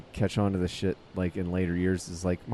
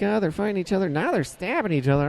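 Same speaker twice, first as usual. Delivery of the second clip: higher, mock-panicked mother on the phone to police; alarmed mom; 11 semitones higher than usual. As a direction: play the frightened mom reporting a fight. Mom calling police during fight.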